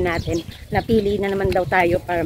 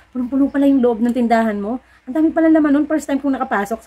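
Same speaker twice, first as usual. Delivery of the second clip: higher, louder, lightly voiced impressed neighbor; amazed neighbor; 6 semitones higher, 3 dB louder than usual. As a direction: imitate the neighbor gushing in mild surprise.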